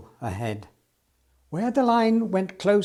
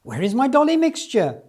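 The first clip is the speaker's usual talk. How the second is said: higher, louder mock wail; 7 semitones higher, 6 dB louder than usual. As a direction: complain in a hammed-up wail. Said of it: "wailed Missus Williams".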